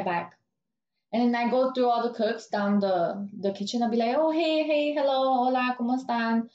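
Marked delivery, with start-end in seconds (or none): 4.2-6.5 bright sing-song hellos, pitched higher; cheery greeting. Retold or imitated. Greeting every cook in the kitchen, higher bubbly hellos.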